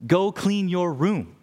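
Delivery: slow, firm repeat of the order; dad insisting calmly but flatly; firm father. Retold or imitated. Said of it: "No, I meant what I said".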